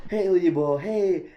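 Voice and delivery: loud high call of Oyibo. Retold or imitated. Motorcyclist hails the foreign visitor, loud call. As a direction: shout it across from a motorbike. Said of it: "he looks at you and says".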